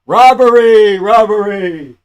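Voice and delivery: high, loud drawn-out yell; crying robbery. Real, not acted. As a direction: holler it like an outraged fan. Mock outcry at the decision.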